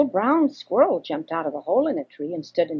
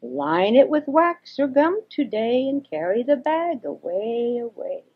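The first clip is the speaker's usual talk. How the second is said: higher owl call from the tree; 5 semitones higher than usual. Acted. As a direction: hoot it down from above. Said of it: "called out".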